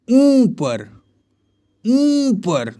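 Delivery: ऊपर sung out high with a long ऊ. Shown as a demonstration. Teacher calling out drill words to the class, high and stretched. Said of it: "इस सब में बड़ा ऊ रहता है".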